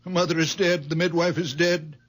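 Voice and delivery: a catch of tears in the voice; tearful grief. Acted. Old father grieving his dead baby daughter, near tears. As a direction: say it close to crying.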